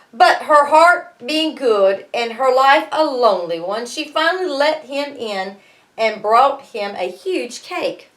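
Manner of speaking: lively read-aloud storytelling; story narration. A narrator's reading. Teacher reading Jack and the Beanstalk to her class, lively narration.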